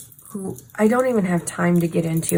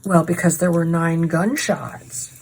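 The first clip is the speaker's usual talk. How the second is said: confident detective voice; 3 semitones lower than usual. Retold or imitated. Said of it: "he says very confidently and assuredly".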